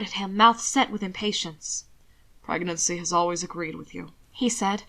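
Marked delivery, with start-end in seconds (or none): 2.4-4.1 charming. Acted. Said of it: "offering his most charming smile".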